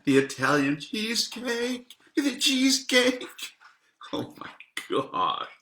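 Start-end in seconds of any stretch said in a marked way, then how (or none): 0.1-3.2 high, hammed-up mock Italian accent; bad Italian accent. Shown as a demonstration. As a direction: ham up a clumsy Italian accent on the dessert name. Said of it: "I'm really bad at accents".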